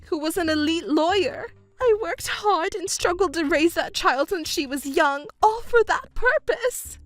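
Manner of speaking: high, indignant complaint building to the end; aggrieved protest. Acted. Mother complaining her scheme has failed, aggrieved. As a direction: insist you were cheated of your due.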